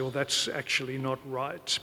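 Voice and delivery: softly retold, feeble objection; feeble protest. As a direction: object meekly, dropping the volume. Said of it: "I feebly tried to say".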